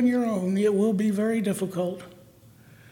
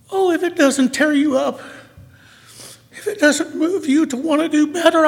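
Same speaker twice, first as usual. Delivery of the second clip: tearful, pitched-up pleading; emotional; 4 semitones higher than usual. Real, not acted. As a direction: voice close to breaking with feeling. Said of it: "I'm sorry I'm so, so emotional".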